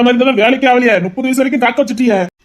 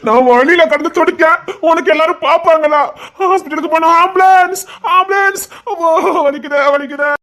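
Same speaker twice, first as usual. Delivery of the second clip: higher, hammed-up pleading wail; mock fainting; 5 semitones higher than usual. Man fakes fainting in hammed-up wails for colleague. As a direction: play dying for laughs.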